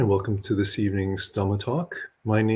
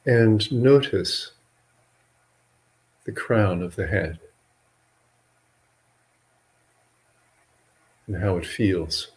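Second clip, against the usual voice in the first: measured meditation guidance with long pauses between phrases; guided meditation. Real, not acted. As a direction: guide listeners gently into relaxing, leaving long silences.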